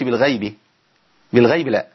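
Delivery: بالغيب with a light, thin غ; wrong pronunciation. Shown as a demonstration. Teacher showing students the wrong, thin غ. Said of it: "ما أقولش".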